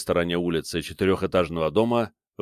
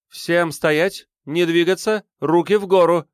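higher, louder barked order; commanding shout; 10 semitones higher, 5 dB louder, slower than usual. A narrator's reading. Armed girl ordering everyone to freeze, shouting. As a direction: freeze them all with a shout.

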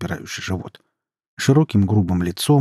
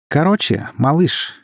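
higher, playful teasing tone; playful, pitched up a notch; playfully raised voice; 7 semitones higher, 4 dB louder, slower than usual. A narrator's reading. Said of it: "игриво повысила она голос".

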